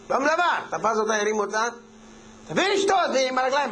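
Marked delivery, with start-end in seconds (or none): 2.5-3.1 pitched up, demanding a drink; a drunk husband pushes harder for his drink; higher drunk demand. Acted. (דרישה שיכורה בקול גבוה)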